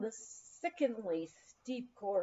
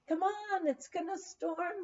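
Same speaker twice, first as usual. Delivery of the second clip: yelling from afar; 9 semitones higher than usual. A narrator's reading. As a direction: call down to them to hurry. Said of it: "they yelled at us".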